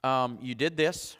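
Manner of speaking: a calm parent handing out consequences; calm quiet discipline. Shown as a demonstration. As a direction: give the consequence gently, no anger. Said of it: "coming to this place of saying".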